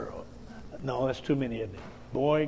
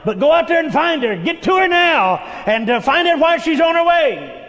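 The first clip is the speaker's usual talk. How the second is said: louder, higher, pressing; urgent command; 8 semitones higher, 5 dB louder than usual. Acted. Man of God ordering Gehazi out to meet her, urgent. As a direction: send him off with urgency.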